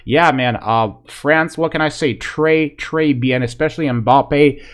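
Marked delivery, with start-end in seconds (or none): 2.2-4.6 put-on playful French accent on très bien. Fan hams up French praise for France in a French accent. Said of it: "that's my French accent".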